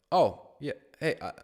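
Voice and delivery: a hint of a casual, awkward confession; movie character voice. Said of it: "the guy was like".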